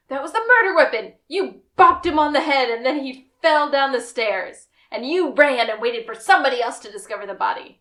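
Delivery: fast, eager accusing reveal; Lassiter's brainwave. Retold or imitated. Detective laying out his case to the suspect, excited. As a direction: rattle off the big deduction. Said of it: "he goes".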